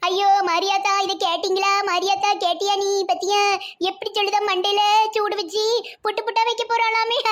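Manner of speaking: hammed-up complaint rising into a wail; outraged wailing. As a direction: cry out for witnesses to the threat. Mother appalled at daughter-in-law's threat.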